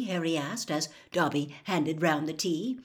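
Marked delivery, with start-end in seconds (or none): none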